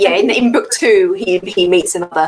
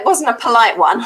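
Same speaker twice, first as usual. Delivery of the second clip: laughing; 4 semitones higher than usual. Real, not acted. Laughing about a rude ship.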